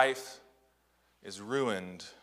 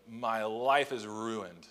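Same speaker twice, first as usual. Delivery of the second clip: put-on mopey teen lament; 4 dB quieter, much slower than usual. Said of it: "Perhaps you've heard or said as a teenager".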